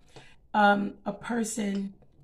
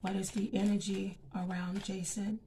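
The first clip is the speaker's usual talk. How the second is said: soft, hushed prayer to God before the cards; quiet prayer; 7 dB quieter than usual. Acted. Reader asking God for clear messages, soft prayer.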